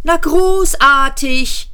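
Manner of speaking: high, slow sarcastic yap; high, drawn-out sarcastic yelp; yapping. A narrator's reading. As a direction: snap it out in mock praise. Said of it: "kläffte Seyfort".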